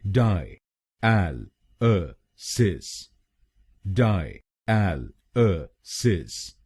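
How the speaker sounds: very slow, each syllable of डाई एल अ सिस split apart. Shown as a demonstration. Teacher breaks the word into slow syllables. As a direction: spell it out slowly: die, AL, uh, sis. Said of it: "तो बनेगा डायलिसिस".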